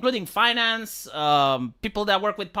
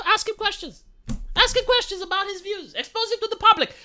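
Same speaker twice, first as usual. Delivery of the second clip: emphatic, amused insistence; 9 semitones higher than usual. Real, not acted. Pushing his point.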